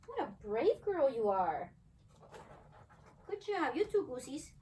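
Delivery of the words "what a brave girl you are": slow, reassuring words to a shy dog; gentle praise for a brave pup; tender praise. Real, not acted. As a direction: soothe and praise her.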